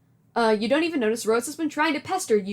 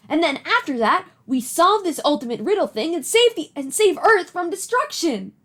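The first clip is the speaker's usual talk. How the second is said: excited John; 3 semitones higher, 4 dB louder than usual. Acted. Voicing excited John character.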